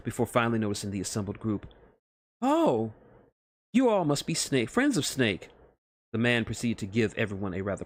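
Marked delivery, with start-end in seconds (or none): 2.4-5.5 higher, eager, flustered scientist; a lightly higher nervous nerd; nervous Otacon voice. Acted. Scientist flustered meeting Snake's friends, higher nervous voice.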